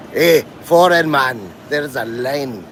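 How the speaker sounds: a touch of put-on Scottish; lightly voiced Scottish, slow at the start. Shown as a demonstration. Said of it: "that's the lower register".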